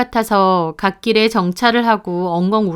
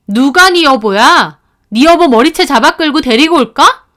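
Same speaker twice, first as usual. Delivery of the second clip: furious wife; 4 semitones higher, 5 dB louder than usual. Acted. Wife confronts her cheating husband, seething and loud. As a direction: spit it back at him, seething.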